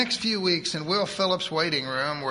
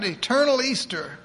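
put-on higher, fast voice of a bossy old churchwoman; eager church lady; 7 semitones higher, 4 dB louder than usual. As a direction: rattle it off like a pushy saint. Edith rejoicing.

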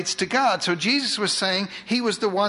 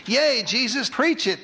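bright, higher cheer from the crowd; mock cheer; 4 semitones higher than usual. The crowd cheering Jesus on, a mock excited cheer. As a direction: cheer him on like a fan. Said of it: "they were about to say".

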